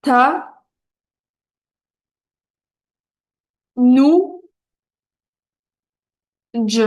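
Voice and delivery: "Ta", "nu", "dj" with long gaps; teacher's slow decoding of a word; syllable by syllable reading. Shown as a demonstration. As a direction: sound out each syllable on its own. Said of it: "on va le lire".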